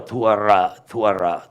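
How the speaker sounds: "tuara" with a w glide before the R; lip-rounded w. Shown as a demonstration. Teacher combining lip and throat sounds, deliberately articulated. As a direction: round the lips inside "tuara". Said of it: "So I go".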